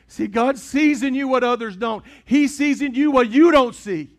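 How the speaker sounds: loud, rising sermon climax; preaching at full force. Acted. Preacher to congregation, booming and rising.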